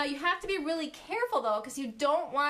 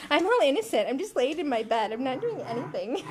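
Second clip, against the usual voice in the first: lightly voiced innocent dog, first line louder; voicing the dog; 4 dB louder, faster than usual. Owner voices her dog claiming innocence, mock-innocent. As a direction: play the dog pretending innocence. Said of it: "She's like".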